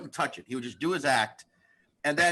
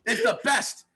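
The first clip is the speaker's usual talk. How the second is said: mock defiant outburst; 5 semitones higher, 3 dB louder than usual. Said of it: "we were all like".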